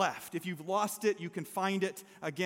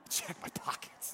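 dumbfounded; 3 semitones lower, 11 dB quieter, slower than usual. Retold or imitated. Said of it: "retold dumbfounded echo".

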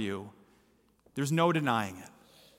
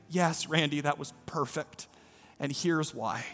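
tender reply; 5 dB quieter than usual. Retold or imitated. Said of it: "And I said".

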